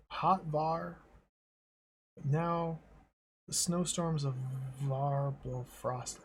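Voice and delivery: a light fake Russian accent, only now and then; hint of a put-on Russian accent for the queen. Ice Queen greets the gnome in a light fake Russian accent. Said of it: "Like a fake Russian accent".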